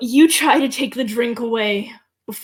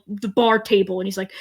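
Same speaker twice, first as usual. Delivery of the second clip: ordinary talk, nothing marked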